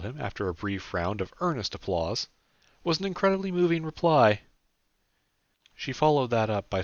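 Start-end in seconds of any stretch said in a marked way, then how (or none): 2.8-4.4 high, loud mock-solemn pronouncement; Sarah's voice. A narrator's reading. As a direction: announce it with grand mock gravity.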